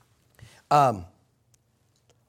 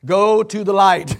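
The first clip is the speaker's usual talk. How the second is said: emphatic; 2 semitones higher, 12 dB louder, slower than usual. Retold or imitated. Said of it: "And I said".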